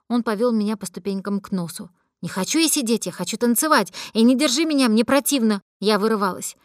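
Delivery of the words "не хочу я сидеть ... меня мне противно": put-on drunk protest. Drunk girl fights her friend.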